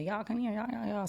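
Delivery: high calling voice of a grandma. Retold or imitated. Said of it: "My grandma would say".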